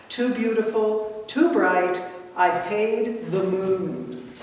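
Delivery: deliberate recital with parallel cadence; balanced, lilting verse delivery; poem reading. Acted. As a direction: read it as a poem, drawing out the final line. Reads cantor's poem aloud.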